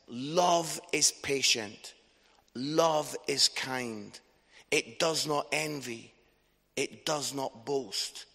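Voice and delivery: slow, measured Bible reading with pauses; scripture reading. A narrator's reading. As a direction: read each line slowly and let it settle. Reads Bible passage aloud.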